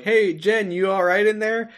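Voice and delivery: lightly acted, high-voiced concern; imitated concerned Rory. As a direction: call gently to someone behind a door. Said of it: "Rory is like".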